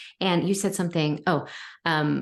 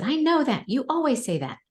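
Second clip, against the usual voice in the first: 1 imitating son; 8 semitones higher than usual. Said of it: "He said".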